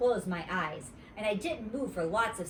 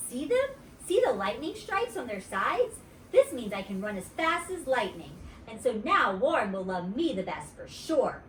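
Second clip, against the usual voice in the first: put-on bragging girl; 3 semitones higher than usual. Grace bragging.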